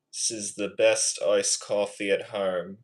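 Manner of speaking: attempted British impression; British accent. Shown as a demonstration. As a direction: imitate a British speaker. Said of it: "I'm better at the British accent".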